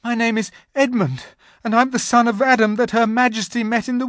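high, loud nervous babble; trembling. A narrator's reading. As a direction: rush it out in fear. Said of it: "trembling so that he could hardly speak".

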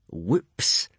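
put-on gloating oops; mock-innocent bully; mock-innocent laughing. A narrator's reading. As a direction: pretend it was an accident. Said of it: "laughed Snotlout".

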